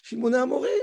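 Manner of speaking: "Shimona Amorim" said evenly and level, with no anger; calm reading. Shown as a demonstration. Teacher gives the correct, calm reading of Moses. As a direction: read "Shimona Amorim" as a cool, measured reproach. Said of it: "non, c'est pas comme ça qu'il faut lire".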